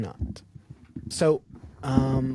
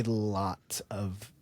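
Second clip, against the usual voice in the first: whispering; 4 semitones lower, 7 dB quieter, much slower than usual. Acted. Ominous aside about violence.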